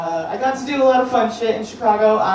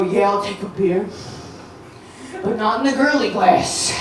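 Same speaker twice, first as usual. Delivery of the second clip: guy ordering beer; 4 dB quieter than usual. Retold or imitated. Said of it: "One guy would go".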